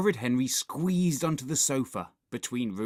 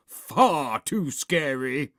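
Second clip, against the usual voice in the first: adamant dad; 4 semitones higher, 6 dB louder, slower than usual. A narrator's reading. Dad refuses the film.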